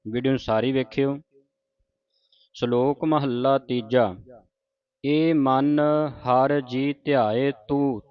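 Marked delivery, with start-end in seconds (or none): 2.5-4.0 slow measured scripture recital; gurbani recitation. Shown as a demonstration. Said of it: "ਉਚਾਰਨ ਸਿੱਖਣਾ ਹੈ". 5.0-8.0 slow recital, rest on ਤੂੰ; pause after ਤੂੰ. Shown as a demonstration. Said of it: "ਤੂੰ ਤੇ ਵਿਸਰਾਮ ਹੈ".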